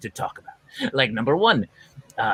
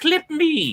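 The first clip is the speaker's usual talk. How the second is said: tiny, squeaky, silly character voice, very high; 12 semitones higher than usual. On a call, a speaker voices a man's nose hair in a little character voice. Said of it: "I'm doing the voice of the nose hair".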